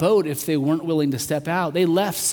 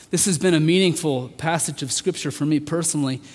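ordinary delivery

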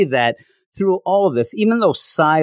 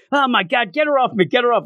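mock screaming; 10 semitones higher, faster than usual. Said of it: "He's just screaming".

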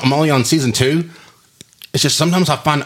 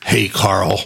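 mock Southern drawl, lower; 4 semitones lower than usual. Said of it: "With, like, a southern, like, drawl".

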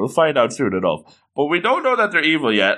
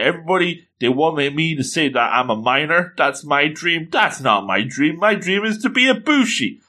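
put-on frustrated young hero; 4 semitones higher than usual. Voices hero's frustrated dream.

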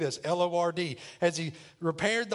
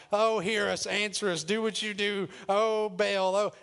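higher-pitched imitation of desperate praying; mock crying out; 3 semitones higher than usual. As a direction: imitate prophets calling out to their god. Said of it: "They start crying out".

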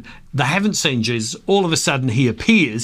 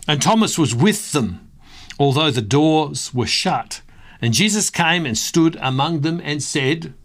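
scripture reading; 2 semitones higher than usual. Acted. Reads John twenty aloud.

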